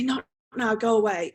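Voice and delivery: a touch of brusque brush-off; lightly voiced dad waving a child away; dismissive father. Father to child showing him art, mildly dismissive. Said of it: "his father will dismiss him".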